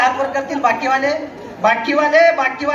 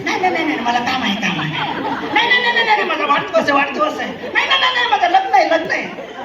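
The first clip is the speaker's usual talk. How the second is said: higher, frantic no-no-no dodging; mock excuses; 3 semitones higher than usual. Guest dodging the inviter with excuses, hammed-up high protest. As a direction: play the guest wriggling out with excuses. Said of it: "किती नाटकं केले तुम्ही?".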